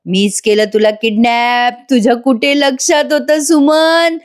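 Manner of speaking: hammed-up villainous glee; gleeful mock confession. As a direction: own up with teasing, stretched words. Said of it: "उड्या मारून म्हणतो".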